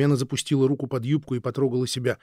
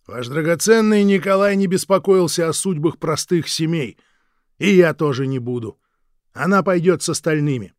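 loud, higher, scornful; contemptuous refusal; 5 semitones higher, 9 dB louder than usual. Acted. Guard scorning the tsar and the husband, loud and cold. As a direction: spit out the refusal.

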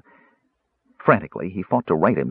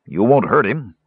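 anxious; 3 semitones higher, 4 dB louder than usual. A narrator's reading. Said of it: "Caramon asked anxiously".

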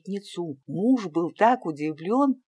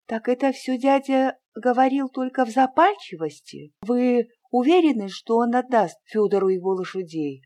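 eager hopeful questions; 7 semitones higher, 5 dB louder than usual. A narrator's reading.

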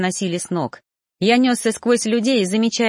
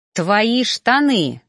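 blurted out; 3 semitones higher, 4 dB louder, much slower than usual. A narrator's reading. Blurting out in frustration.

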